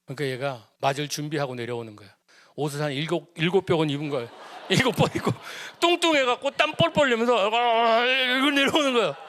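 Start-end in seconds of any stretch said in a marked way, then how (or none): 4.5-9.2 higher, louder, talking through laughter; laughing. Real, not acted. Laughing at bundled-up son.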